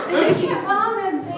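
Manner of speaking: talking through chewing; a mouthful of chips; mouth full. Real, not acted. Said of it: "I was just chewing some Doritos".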